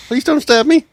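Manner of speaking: high frightened plea; scared pleading. Acted. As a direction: beg not to be stabbed. Hostage pleading.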